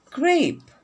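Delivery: grape said high and loud; model word. Shown as a demonstration. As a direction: call out grape brightly for the class. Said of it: "what other fruits there?".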